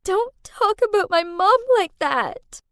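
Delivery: hurt, crying defence of her mom; sobbing plea. Acted. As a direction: beg through tears to stop.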